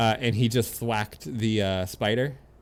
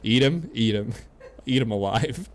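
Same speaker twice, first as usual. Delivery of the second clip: gleeful cheering; 2 semitones higher, 6 dB louder than usual. Real, not acted. Cheering on a fight.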